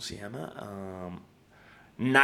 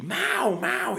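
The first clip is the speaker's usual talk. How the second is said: much higher-pitched name call; imitated calling out; 9 semitones higher than usual. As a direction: imitate girls hailing someone, voice pitched up. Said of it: "me empezaron a gritar".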